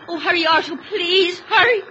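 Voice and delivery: a desperate wife begging Arthur to hurry; tearful plea. Acted. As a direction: beg him to hurry, close to sobbing.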